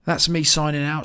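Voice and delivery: rough, croaky morning voice; early-morning croak in the throat. Real, not acted. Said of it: "Sorry about the croaky voice".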